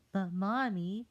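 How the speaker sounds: put-on high, loud pleading kid; whiny child. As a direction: cry out to mommy. Child protesting.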